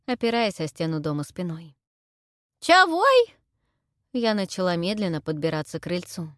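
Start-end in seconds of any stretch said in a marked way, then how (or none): 2.6-3.3 high, loud cracked granny squawk; deaf old crone. Acted. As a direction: play a half-deaf old hag asking back. Heroine plays deaf old crone. (старуха-глухая переспрашивает визгливо)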